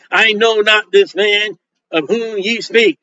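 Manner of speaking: slow, solemn King James reading; scripture reading. Acted. Preacher reading Peter's denial to congregation, slow and solemn. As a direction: read it slowly like scripture. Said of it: "And the second time the cock crew".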